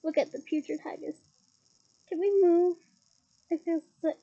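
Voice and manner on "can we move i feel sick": queasy Ron. Acted. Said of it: "said Ron".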